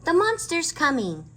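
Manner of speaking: high, loud call to run; urgent shout. A narrator's reading. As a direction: yell it like she's really scared. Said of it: "said Annie".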